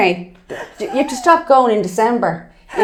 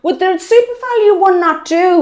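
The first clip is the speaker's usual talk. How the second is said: mock despair; 5 semitones higher than usual. Acting her despair in the shop.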